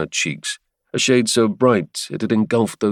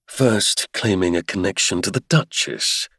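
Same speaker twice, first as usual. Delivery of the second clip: jeering. Acted. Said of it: "he jeered".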